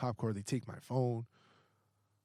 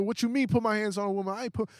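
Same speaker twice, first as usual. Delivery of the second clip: angry disbelief; 9 semitones higher, 4 dB louder than usual. Retold or imitated. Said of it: "I'm so mad".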